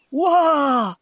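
storyteller's acted dragon scream; dragon's scream. A narrator's reading. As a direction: yell in fright as the dragon. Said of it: "screamed the dragon".

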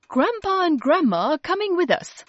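put-on a mother briefing the kids before going out; Mum's voice. A narrator's reading. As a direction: mum telling the children the plan, lightly voiced. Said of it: "said Mum".

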